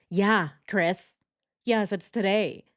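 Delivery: pointed, emphatic mock exasperation; exasperated. Answering Chris's silly question about the picture, mildly exasperated. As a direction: answer as if it should be obvious.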